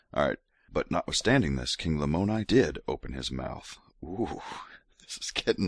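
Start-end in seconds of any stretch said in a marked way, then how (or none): 0.7-3.8 hint of a seductive read; mock sexy voice. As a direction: breathe the scripture like a come-on, lightly. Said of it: "gonna keep going with sexy voice".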